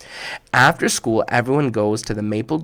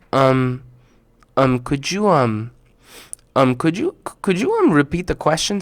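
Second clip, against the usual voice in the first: nervous stammer; 2 semitones higher than usual. Acted. Asad frozen, stammering.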